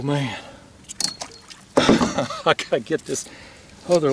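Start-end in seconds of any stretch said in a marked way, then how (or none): 1.8-2.4 short breathy chuckle; short laugh. Real, not acted. Angler relieved after landing the fish, short chuckle. Just landed a big catfish.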